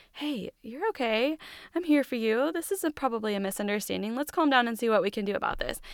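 calm reassurance. Acted. Husband hugging his upset wife, calmly reassuring. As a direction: lightly imitate a comforting husband. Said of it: "your husband was just calmly s-, hugging you calmly and saying".

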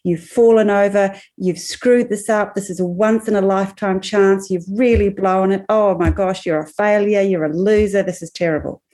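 emphatic self-scolding, mildly acted; lightly acted harsh self-talk, falling away at the end; critical inner voice. Psychologist voicing a fallen runner's negative inner voice, mildly scolding. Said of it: "critical, self-destructive inner voice".

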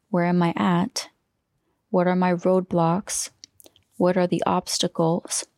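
whisper. Real, not acted. Reading coaching questions whispered.

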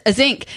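"zinc" in place of sink, with a voiced z; nanny's dialect word. Shown as a demonstration. Repeating nanny's word for co-host, "zinc" with a z. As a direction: repeat "zinc" with a buzzing first sound. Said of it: "These are words that, that my nanny would say".

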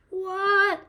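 a sudden high yelp of shock; retold scream. The needle stings and she shrieks at the midwife, a high shocked yelp. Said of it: "I just screamed".

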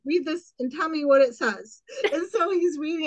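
laughing through real tears; half-laugh, half-cry, barely holding together; tearful laughter. Real, not acted. Recalling showing her boss the passing result, tearful laughter.

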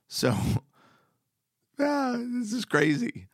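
overwhelmed laugh. Real, not acted. Overwhelmed by the parable.

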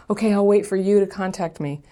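lightly sly, scheming reread; calculating ex. Retold or imitated. Host voices the ex plotting to hook him, slyly. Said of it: "I could just see her calculating".

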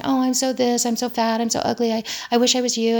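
mock teen complaining. Daughter's friends putting themselves down, mock complaining.

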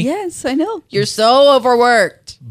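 high, slow mock pity; mock sympathy. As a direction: tease him with fake sympathy. Teasing about his workload.

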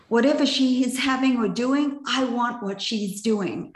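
emphatic imitation of keen coworkers; retold eager envy. Quoting envious coworkers, Meg Ryan scene.

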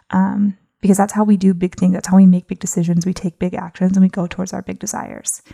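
slightly winded, breathing hard. Real, not acted. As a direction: talk while catching your breath. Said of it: "I'm a little out of breath".

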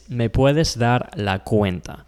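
¿Me puedes dar la cuenta? said slowly and clearly; careful teacher demo; slow Spanish demo. Shown as a demonstration. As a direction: model the request slowly.

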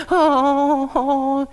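loud, high mock crying; drawn-out imitation of a bawling child; imitated wail. Pastor imitating the drop-off scene at the nursery, loud mock wailing. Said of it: "the kid starts crying".

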